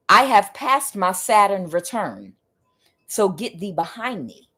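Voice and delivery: lightly voiced Jesus, slow and firm; Jesus translated. Jesus declaring he passed his Saturn return, slow and firm. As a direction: declare it slowly, calm authority. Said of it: "I'll translate".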